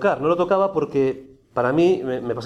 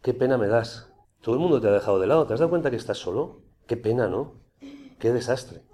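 pitying inner voice; 3 semitones lower, 3 dB quieter than usual. Retold or imitated. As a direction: coax him gently, as if feeling sorry for him. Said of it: "volvía".

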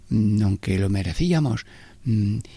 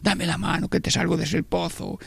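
tender mother; 7 semitones higher, 3 dB quieter than usual. Acted. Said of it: "un buscar la madre al hijo".

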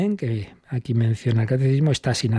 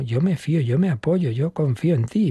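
sincere prayer; 2 semitones higher than usual. Shown as a demonstration. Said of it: "de no estar diciendo de carrerilla palabras sin sentido".

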